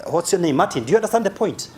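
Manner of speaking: lively, chatty mock sanguine; light mock show-off; imitating a sanguine talker. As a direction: act out an animated gesturing talker. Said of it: "they talk like this".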